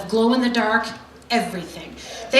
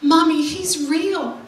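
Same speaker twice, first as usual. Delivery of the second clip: put-on child voice; 6 semitones higher than usual. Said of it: "my youngest actually says".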